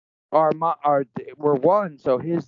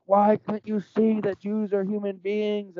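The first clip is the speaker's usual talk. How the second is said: high, drawn-out imitation of pleading; mock tearful pleading; 6 semitones higher than usual. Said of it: "crying, pleading".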